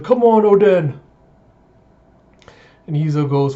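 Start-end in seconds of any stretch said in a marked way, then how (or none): 0.0-0.9 high, loud urging shout; cheering. Retold or imitated. Pirate rooting for the man on the chain, cheering. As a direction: holler encouragement like one more crew member. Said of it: "pirates starting to cheer".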